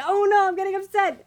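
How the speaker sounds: high, loud, laughing fake alarm; mock panic. Joking as a werewolf getting riled up, mock panic. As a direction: play up a comic sudden panic. Voicing a werewolf about to transform.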